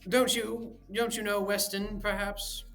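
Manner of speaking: mock the old-school sentiment; mocking Devine.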